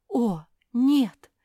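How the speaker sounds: loud breathy gasp of fear; frightened. Acted. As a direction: cry out in fright. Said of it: "испугалась Куки". (испуганный возглас)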